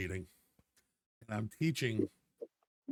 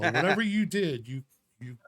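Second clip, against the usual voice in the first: doctor voice; 5 dB louder than usual. Retold or imitated. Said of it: "He's all".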